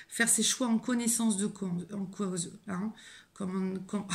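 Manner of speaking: tripping over the words; stammered false start, losing the phrase; stumbling. Real, not acted. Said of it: "je bégaye". (en bafouillant)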